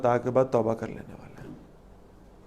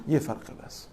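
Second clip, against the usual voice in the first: whispered; 8 dB quieter than usual. Shown as a demonstration. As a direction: whisper the punchline. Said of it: "punchline whispered, repeated later".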